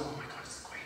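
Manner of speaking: hushed, barely voiced gasp of recognition; awed whisper. Performers spotting the Queen coming out, awed whisper. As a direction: whisper it as an awestruck onlooker. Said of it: "everyone's like".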